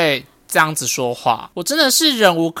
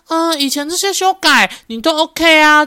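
imitating the boss; 10 semitones higher than usual. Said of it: "他跟我说".

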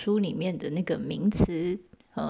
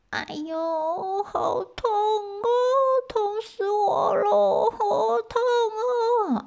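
high, slow, crying little rabbit voice; wailing hurt rabbit; 3 dB louder, much slower than usual. Acted. Hurt bare rabbit crying to passing gods, high slow wail. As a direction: sob out the pain like a skinned bunny. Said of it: "在那边哀嚎着".

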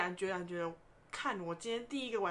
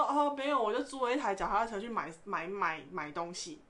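hesitant stammer. Retold or imitated. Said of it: "支支吾吾的说".

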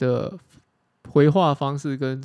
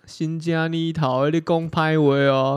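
Taiwanese; slower than usual. Retold or imitated. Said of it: "台语是这样讲".

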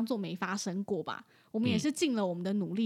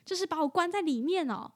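imitating angry owner; 4 semitones higher, 4 dB louder than usual. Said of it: "他就很生气".

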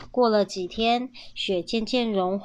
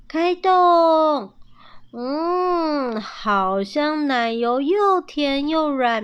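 delighted; 6 semitones higher, 5 dB louder, much slower than usual. A narrator's reading. Mother tastes the honey.

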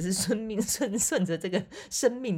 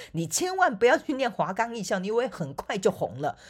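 a hint of a scolding mother, higher and louder; lightly mock the mother's warning; imitated mother; 7 semitones higher, 6 dB louder than usual. Retelling her mother forbidding art school, mock scold.

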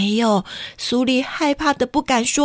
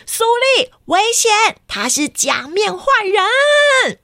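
through a megaphone; 8 semitones higher than usual. Acted. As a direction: call out a warning to the girl. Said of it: "拿起了大声公就说".

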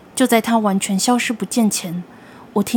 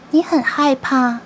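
creepy creature voice; 4 semitones higher, slower than usual. Acted. Creature asks scared child.

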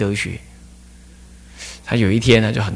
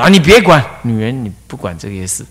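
斥责. Retold or imitated. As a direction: brush her off with a brief raised snap. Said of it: "就把他骂回去". (模仿师父斥责师母)

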